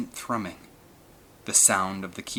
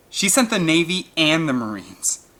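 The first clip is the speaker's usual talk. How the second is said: excited; 7 semitones higher, 6 dB louder than usual. A narrator's reading. Boy excited about rescue.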